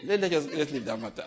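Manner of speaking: dismissing it with a chuckle; amused letting-go. Real, not acted. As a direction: laugh through the words as you drop it. Laughs off own angry outburst.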